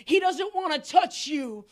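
loud, scolding crowd telling him to shut up; mock crowd shout. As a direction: bark it like an annoyed crowd. Crowd hushing the blind man.

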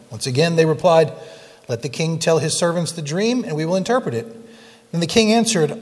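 measured, earnest reading of scripture. Acted. Pastor reading Daniel two to the congregation, steady and earnest. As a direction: read the king's story to the congregation.

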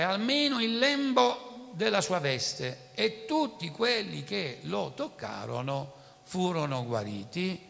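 measured, solemn Bible reading; preacher reading the passage aloud to the church; scripture reading. Acted. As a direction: read the Gospel to the congregation. Reads the Gospel passage aloud.

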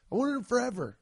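a sneakerhead insisting how long he wanted them; emphatic longing repeat. Real, not acted.

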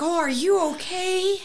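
high-pitched imitation of concern; retold vet checking on her; concerned caller. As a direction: ask with exaggerated worry. Vet voiced reacting to crying.

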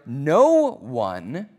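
"No one" drawn out slowly with weight; stress on "No one". Shown as a demonstration. Preacher showing Paul's strong emphasis, stress on "No one". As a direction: lean hard and slowly on "No one". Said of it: "that's a really strong emphasis".

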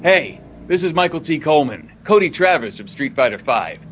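podcast promo read. Acted. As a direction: sell the show, then punch the tag. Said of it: "what's my thing".

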